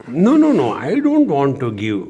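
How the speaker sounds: sharp rising no-no-no, then settles; insistent protest, lightly voiced; retelling a follower's fussy refusal; emphatic refusal. Disciple insists on giving packets.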